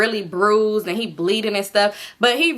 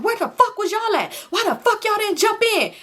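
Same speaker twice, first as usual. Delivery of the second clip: angry accusation; 10 semitones higher than usual. Retold or imitated. Enemy angry at friends.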